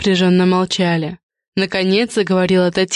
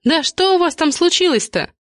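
squealing; 10 semitones higher than usual. A narrator's reading. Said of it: "взвизгнула Валентина".

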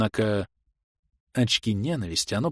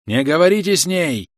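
loud, high warning shout; yelling from afar; 6 semitones higher, 5 dB louder than usual. Acted. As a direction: shout it from a distance. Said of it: "заорал ещё издали бледный".

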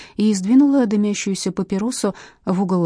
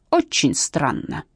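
very slow, pointed doubt; slow suspicion; 2 semitones lower, much slower than usual. Acted. Captain catching the witnesses out, slow suspicion. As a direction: savour the suspicion.

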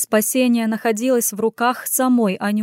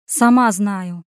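snapped back; 4 dB louder, slower than usual. Acted. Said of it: "огрызнулась Аня".

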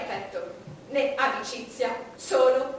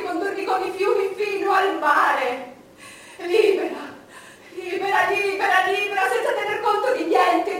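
swelling from full voice to a high, loud ecstatic shout; rising passionate cry; 3 semitones higher, 7 dB louder than usual. Acted. Queen to her court, building to an ecstatic shout. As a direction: let the longing break out louder and higher until it bursts.

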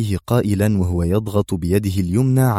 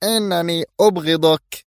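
hateful cry; 8 semitones higher than usual. A narrator's reading. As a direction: cry out while struggling to break free. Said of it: "صرخت وهي تقاتل". (صرخة مكبوتة بصوت عالي الطبقة)

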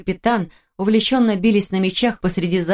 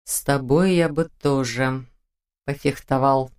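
slow, suggestive tone; low-key flirting; flirtatious; 5 semitones lower, slower than usual. Acted. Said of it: "совсем другим тоном". (игриво, с намёком)

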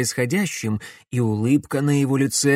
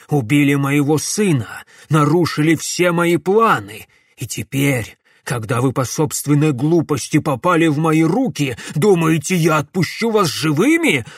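vengeful rant; 3 semitones higher, 5 dB louder than usual. Acted. Villain's furious vengeful tirade.

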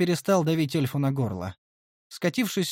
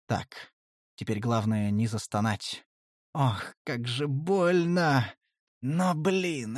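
ordinary delivery, nothing marked

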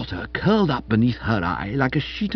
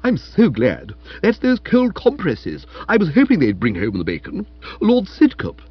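effusive concern; 6 semitones higher, 4 dB louder than usual. A narrator's reading. Aunt's effusive concern for invalid.

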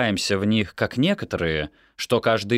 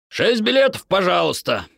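lightly voiced young man, higher; Amihai's voice; 10 semitones higher, 3 dB louder than usual. A narrator's reading. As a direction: order tickets for the family, confidently. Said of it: "произнёс Амихай". (голос Амихая, чуть выше)

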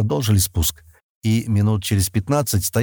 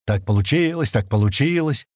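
higher-pitched mocking singsong echo; mocking mimicry; 5 semitones higher than usual. A narrator's reading. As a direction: parrot it back to tease. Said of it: "передразнил её Стэн".

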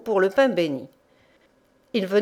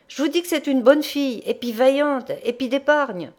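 raised, higher voice pleading into a deaf ear; shouting in his ear; 5 semitones higher than usual. Acted. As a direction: son shouting his case to his half-deaf father. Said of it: "lui crier dans l'oreille".

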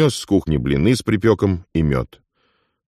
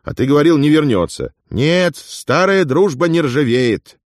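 gleeful; 11 semitones higher than usual. Acted. Afonya boasts to Uigur about his returned friend, gleeful.

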